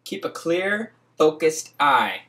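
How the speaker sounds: dramatic reading. Acted. A friend reading the hustler verses aloud, declaiming. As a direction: preach each line like scripture.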